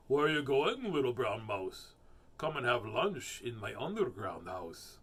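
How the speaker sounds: sly storybook fox inviting the mouse; lilting animal character voice. Acted. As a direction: coax like a picture-book fox.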